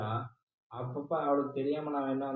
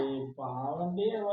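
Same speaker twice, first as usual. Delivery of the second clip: crying; 3 dB quieter, slower than usual. Acted. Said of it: "எதுக்கு அழுகுற?".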